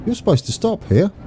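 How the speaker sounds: high-pitched, laughing protest at being let down; laughing disbelief. Real, not acted. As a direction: voice leaps up, half laughing, in mock outrage. Train fails to stop, he protests.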